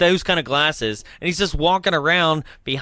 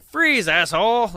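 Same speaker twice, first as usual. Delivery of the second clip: slow, higher hammed-up police bark; mock cop bark; 7 semitones higher, 3 dB louder than usual. Host imitating the officer yelling at the son, mock bark. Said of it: "the officer is like".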